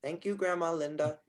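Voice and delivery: put-on high, small child's voice; a little kid thanking grandma; Prudence. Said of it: "you hear your child Prudence voice say".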